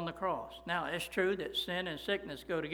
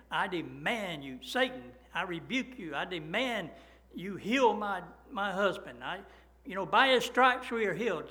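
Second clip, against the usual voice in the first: building from firm demand to loud frantic rebuke; 2 semitones higher, 6 dB louder than usual. Retold or imitated. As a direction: rebuke Satan, growing louder and more desperate. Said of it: "she was going berserk there".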